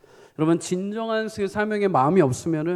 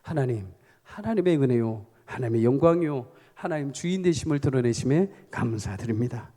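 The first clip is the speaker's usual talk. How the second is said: thankful prayer; 3 semitones lower than usual. Acted.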